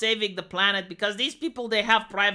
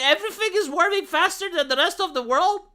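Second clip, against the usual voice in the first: laughing; 7 semitones higher than usual. Real, not acted. Mocking the repeated headlines.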